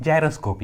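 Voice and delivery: gyroscope begun with a J sound; soft G as J. Shown as a demonstration. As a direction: say gyroscope slowly, G as in jam. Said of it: "जी का आवाज़ क्या आ रहा है". (gyroscope में G को "ज" बोलते हुए)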